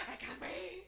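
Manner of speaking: high-pitched, laughing panicked quote; mock panic. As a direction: gasp it out in comic distress. Acts out nervous self, laughing.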